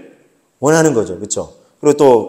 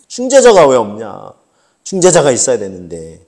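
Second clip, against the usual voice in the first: 안타까운 탄식; 2 semitones lower than usual. Retold or imitated. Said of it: "하나님 이걸 안타까워하신다는". (안타까워하며 천천히 탄식하듯)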